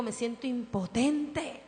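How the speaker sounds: soft, slow, broken confession; quiet tearful plea; helpless prayer. Retold or imitated. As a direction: whisper your helplessness to God. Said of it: "he llorado delante de Dios y digo".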